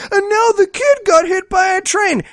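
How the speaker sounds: hammed-up tragic reveal; mock melodrama. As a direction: parody a soap-opera gasp line. Parodying movie melodrama.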